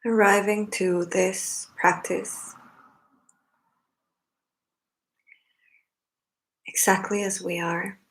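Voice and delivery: unhurried meditation guidance in short phrases with long pauses; spacious, measured meditation leader's delivery; guided meditation. Acted. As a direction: guide them gently into the breath, leaving long silences.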